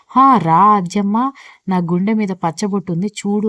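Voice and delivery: slow, drawn-out mock call of the hero. Sandhya teasing Aadya, imitating the hero calling out slowly. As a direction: tease her by hamming up a hero calling out. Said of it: "అని అరుచుకుంటూ తిరుగుతాడు అనుకున్నావా".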